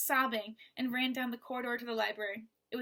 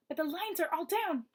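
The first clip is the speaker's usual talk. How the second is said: higher hushed worried woman; whispered; 6 semitones higher than usual. Acted. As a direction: whisper it close. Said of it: "she whispered in Maggie's ear".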